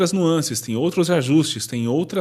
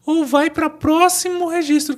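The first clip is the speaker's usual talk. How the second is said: much higher head voice; 13 semitones higher than usual. Shown as a demonstration. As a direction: talk up high like imitating a woman. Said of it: "vai pra voz de cabeça".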